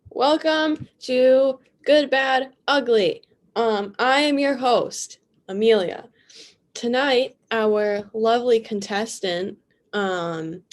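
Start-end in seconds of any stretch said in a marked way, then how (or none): 0.1-9.6 game show host. Acted.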